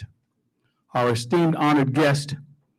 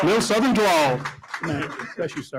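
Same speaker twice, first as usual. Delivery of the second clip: mock Southern drawl; 3 semitones higher than usual. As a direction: ham up a little Southern accent for the introduction. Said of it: "say it with a little bit of a drawl".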